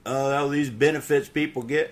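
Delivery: high, loud imitation of griping; mock bitching. Man imitates his brother bitching about benefits, high mock griping. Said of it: "and bitch about it".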